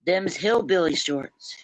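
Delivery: slow, drawled hillbilly twang; lightly put-on Appalachian drawl; hillbilly accent. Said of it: "You're trying to sound like a hillbilly".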